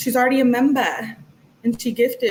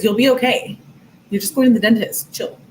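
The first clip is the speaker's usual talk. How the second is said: louder, breezy mock reassurance; embellished boyfriend line; 3 dB louder than usual. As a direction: play up his casual comfort. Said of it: "I made up the rest".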